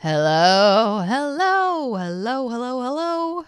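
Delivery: put-on high, wobbly little old lady hello. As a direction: greet like a frail granny. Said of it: "It's like old lady voice".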